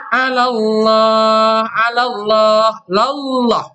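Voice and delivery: Allah with a thick, heavy lam; slow Quranic chant with tafkhim. Shown as a demonstration. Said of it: "Allahnya tebal".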